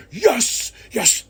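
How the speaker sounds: high, delighted yelp of yes; thrilled fan's yelp; excited yes. Real, not acted. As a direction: celebrate the news. Fan reacts to match announcement.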